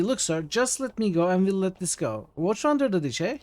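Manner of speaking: smooth it over like a sly sidekick; wheedling Mort. Acted. Voices Mort bargaining.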